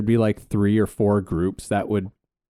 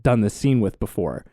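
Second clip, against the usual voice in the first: bossy acting teacher; 3 semitones higher than usual. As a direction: announce the partner swap like a brisk teacher. Acting teacher swapping scene partners.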